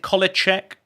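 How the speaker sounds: "Kolacek" with a CH sound before the final ek; guessed pronunciation. Shown as a demonstration. Streamer asks chatter how to say the name, trying "Kolacek" as KOLL-a-check. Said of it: "Don't know how you pronounce that".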